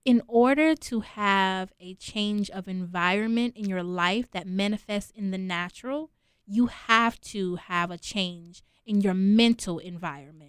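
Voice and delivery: measured restatement, giving each phrase room; slow, deliberate. Real, not acted. Guest repeats her point for the host who asked, slowly. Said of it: "say it again and say it slow".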